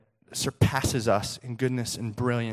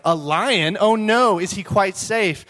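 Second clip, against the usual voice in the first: put-on higher, alarmed little-girl role; worried little Lucy; 5 semitones higher, 4 dB louder, slower than usual. Little Lucy learning Aslan is a lion, worried. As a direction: gasp it out in worried surprise. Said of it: "explaining to little Lucy who Aslan is".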